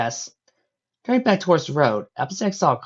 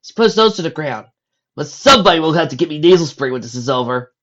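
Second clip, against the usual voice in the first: lightly voiced dog; 3 semitones higher, 6 dB louder than usual. Spike voiced as a character.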